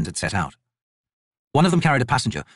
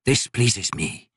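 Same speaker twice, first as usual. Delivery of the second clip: lightly voiced ancient god, slow and measured; a crippled god; 2 semitones higher, slower than usual. Crippled god judging the painter's work, slow and cold. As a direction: speak down to the mortal like a bored deity. God speaks to mortal artist.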